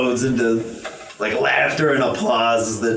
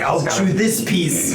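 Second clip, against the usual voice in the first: slow, a bit higher little one; a hint of a determined baby; lightly voiced baby; 7 semitones higher, slower than usual. Baby Pokemon to its mom, slow and a touch higher. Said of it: "he's like".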